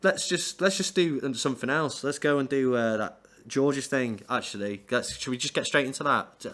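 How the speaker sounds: lightly voiced speaker dodging the song; nervous speaker. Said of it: "And he's like".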